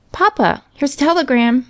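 put-on high little-boy voice; Johnny's cry. A narrator's reading. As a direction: call to father like an urgent child. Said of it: "cries Johnny".

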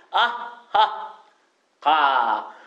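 slow detached "あっはっは"; teacher cues the class with a staccato laugh. Shown as a demonstration. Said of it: "スタッカート気味で".

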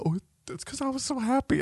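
put-on high sweet girl's reply; a hint of a tender daughter; high little daughter voice. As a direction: answer like a happy little girl. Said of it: "Meeks told me".

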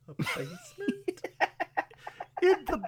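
high-pitched incredulous squeak; mock shock. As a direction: squeal the question through giggles. Echoing line in mock shock.

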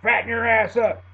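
hammed-up meathead taunt; bully taunt. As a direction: jeer at the little bouncer. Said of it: "and he says".

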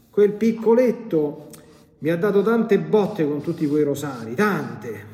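resentful demon grumbling; spiteful demon. Retold or imitated. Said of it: "il demonio ... esclamò". (lamento rabbioso del demonio)

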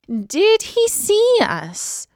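high, slow meowing kitten voice. A narrator's reading. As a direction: meow the words like a kitten. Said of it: "meowed Isis".

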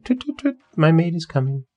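very high chirping birdsong call; swallow call. A narrator's reading. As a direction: sing it out like a swallow.

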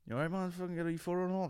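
high, fast camp voice; camp fan impression. Imitating a tipsy fan who blurts at him, high and fast. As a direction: blurt it out like a sudden tic. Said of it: "explode with bits of gay".

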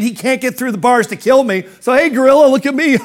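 a zoo visitor who feels safe, laughing and teasing the gorilla; cocky taunt. Retold or imitated. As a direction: brag at the gorilla through a laugh.

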